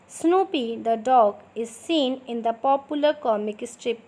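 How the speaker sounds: slow, clear dictation pace for students to write. Shown as a demonstration. Teacher dictating slowly to her students. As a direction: spell it out slowly so they can copy. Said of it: "थोड़ा मैं slow slow बोलूँगी".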